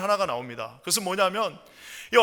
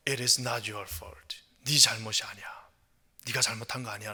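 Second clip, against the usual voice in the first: very low, soft, near-whispered comfort; intimate, quiet consoling voice; hushed reassurance; 7 semitones lower, 6 dB quieter than usual. Acted. Counsellor repeats comfort close up.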